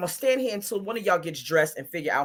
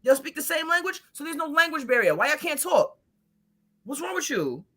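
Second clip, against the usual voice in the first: scolding the couple; 6 semitones higher than usual. Retold or imitated. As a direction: lecture them like kids.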